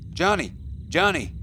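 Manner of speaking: high, loud urgent yell; frantic shout down into the chasm; yelling a name. Acted. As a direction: call him hard to wake him. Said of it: "yelled a voice".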